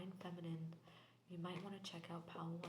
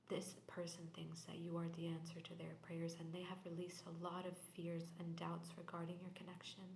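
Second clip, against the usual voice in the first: whisper. Real, not acted. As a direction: breathe the reading out in a hush. Tarot reading in whisper.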